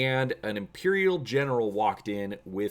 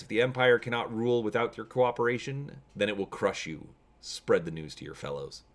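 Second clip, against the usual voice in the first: sinister general. Acted. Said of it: "with a sinister glare".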